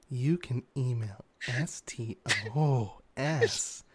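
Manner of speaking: sexy whisper. Pretend. Mock sexy whispered outro.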